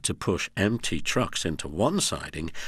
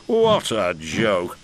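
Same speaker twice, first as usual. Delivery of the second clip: chortling; 4 dB louder, much slower than usual. Acted. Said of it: "he chortled".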